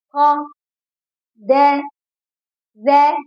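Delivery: خا, دا and ذا said with the mouth wide open on a clear a; open-mouth fatha. Shown as a demonstration. Teacher showing children the open mouth for the fatha. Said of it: "بصوا على الأداة".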